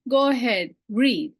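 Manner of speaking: lightly imitated teacher's command to a pupil; a hint of classroom authority; Sanskrit teacher. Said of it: "she'd look at me".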